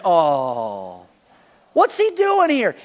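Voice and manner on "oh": low drawn-out sulky oh; a pouty disappointed groan. Pretend. Congregation prompted into a low pouting groan. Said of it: "everybody say".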